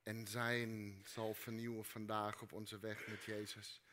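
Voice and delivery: soft, low prayer voice; quiet prayer. Acted. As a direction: pray softly and gently. Closing prayer.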